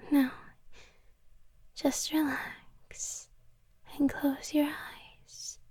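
slow soft whisper in the ear; right in your ear. Acted. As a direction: hush him slowly, close in. Soothing her master to sleep.

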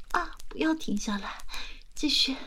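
climbing, breathless urging; rising moaning plea. Acted. (越来越激动的呻吟)

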